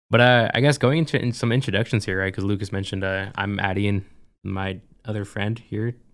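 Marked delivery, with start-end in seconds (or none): 4.4-5.9 friend stressed, said slow and soft. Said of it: "emphasis on friend".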